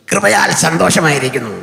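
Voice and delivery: a hint of a showy mimicry voice; mimicry artist voice. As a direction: lightly mimic a stage mimic greeting the crowd. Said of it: "മിമിക്രിക്കാരൻ്റെ sound പോലെ".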